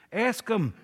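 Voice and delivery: whispered nudge; urgent whisper. Acted. Simon Peter nudging John to ask Jesus, whispering. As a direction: prod him under your breath. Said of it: "You don't want to scream it".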